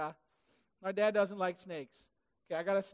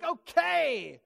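a higher, louder, instant giving-in; meek okay; 7 semitones higher, 6 dB louder than usual. Retold or imitated. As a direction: shrug and agree at once. Most of us would be like.

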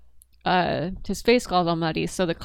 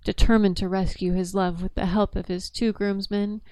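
newscaster voice. Acted.

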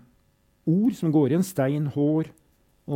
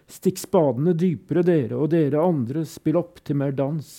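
commanding shout. Acted. The guard orders the diggers, a mock shout within the poem. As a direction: raise the voice like a camp guard's order. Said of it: "Han griper til jernet".

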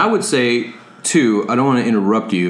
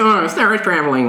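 dreamy, trippy mock psychedelic voice; a hint of a stoned guru; 6 semitones higher than usual. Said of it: "You didn't wanna go with the psychedelic voice".

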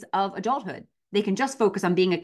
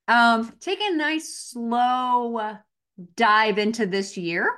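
Casey Moran impression; 3 semitones higher, slower than usual. Shown as a demonstration. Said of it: "my rare is too high".

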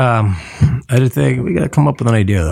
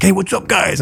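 higher-pitched, chummy busboy voice; imitated busboy greeting; 10 semitones higher than usual. Busboy greeting guys at the table, imitated. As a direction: greet them as the straggly busboy.

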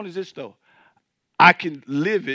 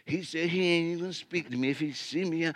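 mock complaint; 10 dB quieter than usual. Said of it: "Oh, he".

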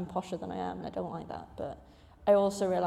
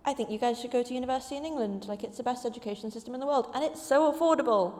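quick, higher imitation of a keen mum; mock enthusiasm; 3 semitones higher than usual. Mum selling her children English universities, mock-enthusiastic.

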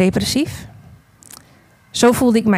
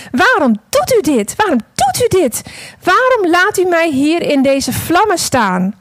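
anguished shout; 8 semitones higher, 3 dB louder than usual. Acted. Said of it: "En ik schreeuwde opnieuw naar hem".

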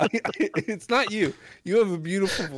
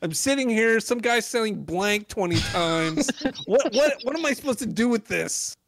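laughing exasperated rant; 6 semitones higher than usual. Real, not acted. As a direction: vent in comic despair, laughing. Exasperated rant over blanks.

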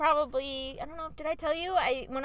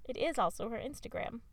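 news reporter voice; 4 dB quieter than usual. Pretend. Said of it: "say it like a news reporter".

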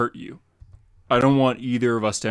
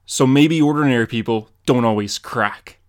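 louder, hard-edged warning; stern loud threat; 7 dB louder than usual. Acted. Batman towering over the Joker, loud and stern. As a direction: lean over him and drive it home.

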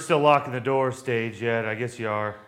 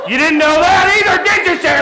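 laughing; 12 semitones higher, 7 dB louder than usual. Acted. Husband's gleeful accusation.

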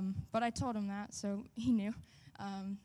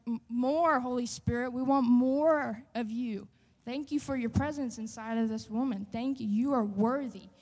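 louder, fervent declaring; praying over a weeping woman, bold and louder; bold prayer; 3 semitones higher, 6 dB louder than usual. Retold or imitated. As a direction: proclaim it boldly over her. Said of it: "I just start boldly speaking things over her".

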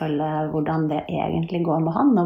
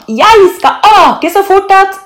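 high, loud, slowed emphasis; jubilant boast; 14 semitones higher, 12 dB louder, slower than usual. A narrator's reading. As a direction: boast with wild excitement. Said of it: "jubler Leona". (jublende, høyt skryt)

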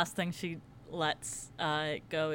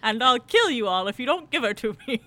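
shouting; 5 semitones higher, 9 dB louder than usual. Retold or imitated. Villain threatening over megaphone.

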